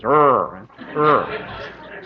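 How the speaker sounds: clumsy British try at American R; ludicrous retroflex R. Shown as a demonstration. Showing how British people imitate it, ludicrous R. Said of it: "it sounds ludicrous".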